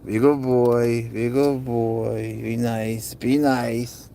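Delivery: calm the pet with drawn-out words; soothing. Real, not acted. Owner settles his hissing cat, soothing.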